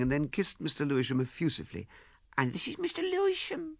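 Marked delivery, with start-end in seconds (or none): 2.4-3.8 lightly voiced fussy mother; a hint of a flustered older woman; Mrs Chaffrey's voice. A narrator's reading. Mother-in-law greets Lewisham.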